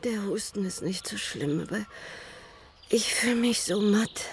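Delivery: feverish, faint whisper; barely getting the words out; weak sick voice. Acted. Kranke Mutter im Bett. (schwach und krank, geflüstert)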